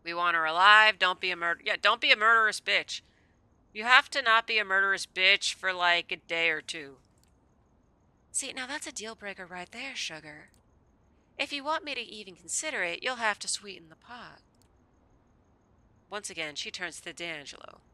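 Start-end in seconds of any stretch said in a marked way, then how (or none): 0.0-7.0 loud, blunt outburst; loud blurt. Real, not acted. Player bluntly loudly demands to Val. 8.3-14.4 a hint of a Southern purr, higher; Southern accent. Val bargains coyly in a light Southern accent. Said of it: "making her Southern".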